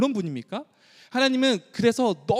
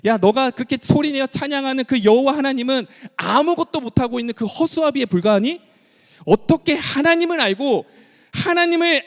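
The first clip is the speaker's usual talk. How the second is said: God rebuking us; 3 semitones higher than usual. Acted. God rebuking today's believers, pained and rising. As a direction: scold the congregation as a grieved father. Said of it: "저와 여러분들에게도 동일하게 하나님 말씀하고 계시죠".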